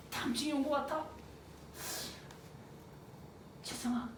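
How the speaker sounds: hushed, halting lament with long pauses; tearful brother. Acted. Brother lamenting at night on the forced march, tearful. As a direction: act out a weary, homesick brother, very softly. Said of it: "밤마다 형이 울었다고".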